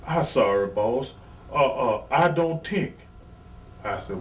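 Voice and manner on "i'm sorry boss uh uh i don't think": put-on French accent. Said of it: "with that French accent".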